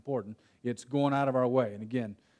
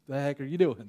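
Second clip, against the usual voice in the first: calm dad reply; 2 semitones lower, 5 dB quieter than usual. Retold or imitated. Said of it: "He's like".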